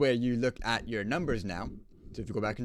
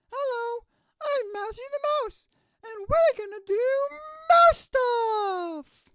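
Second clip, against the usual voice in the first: Mousy the Mouse, wrong way; 4 dB louder, slower than usual. Shown as a demonstration. Engineer demos the wrong way to record the mouse, very high mouse voice. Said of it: "that was the wrong way".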